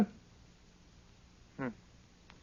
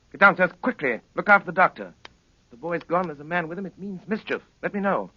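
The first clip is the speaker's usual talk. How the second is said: urgent commands; 3 semitones higher, 5 dB louder than usual. Acted. Urgent orders to Billy.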